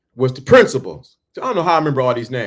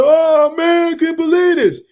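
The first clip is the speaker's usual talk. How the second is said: disbelief; 12 semitones higher than usual. Retold or imitated. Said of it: "He like".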